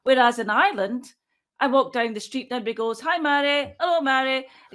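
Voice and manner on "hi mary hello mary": lightly acted passers-by, pitched higher; higher, singled-out quoted hellos; imitated friendly greeting. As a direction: call a cheery hello like a passer-by. Acting out street passers-by greeting her.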